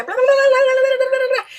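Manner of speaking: high, fast mock babble of someone speaking too quickly; squeaky hurried nonsense chatter; fast native gabble. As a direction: rattle it off like fifth gear. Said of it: "they put on fifth gear".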